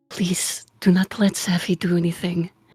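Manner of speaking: slow, hushed whisper spoken aside. Whispering a warning to Raya in character: whispering in character. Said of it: "I'm going to whisper to Raya".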